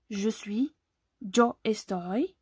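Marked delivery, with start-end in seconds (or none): 1.2-2.3 "yo estoy" slowly, y said as dj; slow model of "yo estoy" with dj onset; demonstrating pronunciation. Shown as a demonstration. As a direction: say "yo estoy" as "djo estoy", drawn out. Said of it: "Ça se prononce comme ça".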